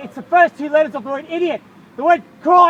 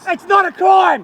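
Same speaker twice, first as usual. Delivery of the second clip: real shout; 3 semitones higher, slower than usual. Real, not acted. Shouting back at officer.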